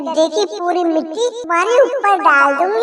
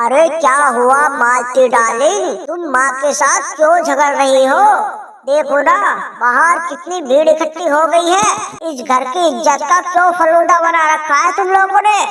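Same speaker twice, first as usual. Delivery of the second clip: calm the quarrel, irritated; lightly voiced annoyed husband. Husband figure scolding.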